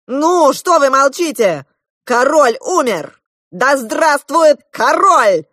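high, loud rallying cry; proclaiming. A narrator's reading. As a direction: demand the crowd cheer. Prince demands acclaim.

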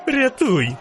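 very high squeal for help; shrieking. A narrator's reading. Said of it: "верещав жовтець". (вереск про допомогу)

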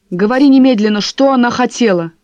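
loud urgent demand. Acted. Husband gripping wife's shoulders, loud urgent demand. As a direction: press her hard for the answer.

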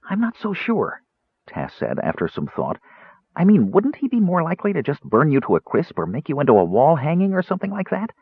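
high, bright-pitched kender chatter; cheerful Kender. A narrator's reading. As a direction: play the eager little Kender, voice up high. Kender voiced by reader.

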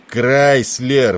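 loud, high bellow of the name; roar. A narrator's reading. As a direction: roar for his attention. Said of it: "взревел Тернер".

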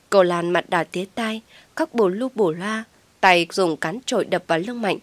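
plain reading voice

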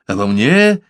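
the fear rising on the second try. A narrator's reading. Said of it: "испуганно залопотал".

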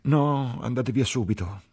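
very high, loud outburst; distraught order. A narrator's reading. Ferguson orders the couple to leave, distraught outburst. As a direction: cry out and send them away.

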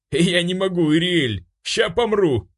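high voice choking with laughter; laughing helplessly. A narrator's reading. The demon, rolling with laughter, gasps out to Iriel. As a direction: gasp it out through laughter. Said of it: "закатывался демон".

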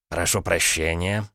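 slow, polite beg-your-pardon with a gentle rise; courteous and unhurried, a touch ironic; polite interruption. Acted. Son-in-law politely cuts in, slow and courteous. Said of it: "вежливо перебил его зять".

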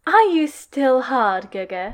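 slow, teasing and grinning; grin in his voice. Acted. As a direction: drag it out with a sly grin. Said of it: "with a grin in his voice".

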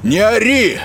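high, brash and rude, hurling insults; high, scornful voice of a bratty celebrity patient. Acted. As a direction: snap at the stranger like a spoiled star. Fogel explaining.

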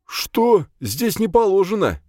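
high, loud, incredulous protest; feigned bewilderment. Acted. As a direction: protest as if you don't understand. Driver feigns confusion when ordered to stop.

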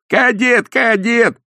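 дразнящий выкрик. Acted. Гости дразнят Кислярского.

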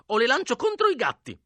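put-on high-pitched old-woman threat; old woman threatening. A narrator's reading. Old woman threatens boys with her cats, crying out.

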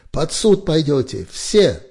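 the officer shouting a threat of court-martial, loud; shouted threat. A narrator's reading. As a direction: threaten them all at the top of your voice. Officer threatening while running.

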